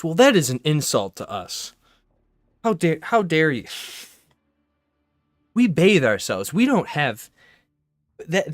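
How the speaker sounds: loud, high, huffy indignation; offended cult member. Pretend. A Far Cry cult member protesting they bathe, loud and indignant. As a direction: play a cult member insulted by the stereotype.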